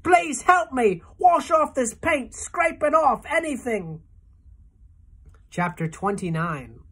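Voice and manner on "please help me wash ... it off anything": much higher, louder, slow desperate plea; bawling plea. A narrator's reading. Centipede begs James to wash the paint off, loud and high. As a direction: beg loudly to be scraped clean. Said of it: "bawled the centipede".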